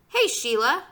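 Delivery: put-on indignant kid's shout; calling out. A narrator's reading. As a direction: call across sharply to a rival. Boy calls out to rival.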